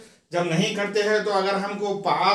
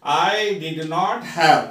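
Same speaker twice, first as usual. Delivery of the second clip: slow, clear model sentence; slow drill reading; 3 dB louder, much slower than usual. Shown as a demonstration. Teacher slowly models the negative sentence for students. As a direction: read it out slowly for the class. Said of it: "यहाँ पर sentences देखिए".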